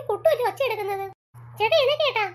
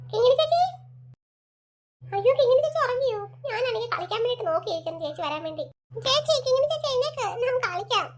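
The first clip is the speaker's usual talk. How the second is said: put-on child voice; 3 semitones higher than usual. Little boy pestering his sleeping big sister to play.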